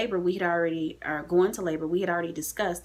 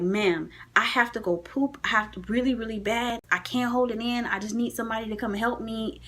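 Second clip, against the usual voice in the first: retold pleading; 5 semitones higher than usual. Re-enacting her plea to the nurse.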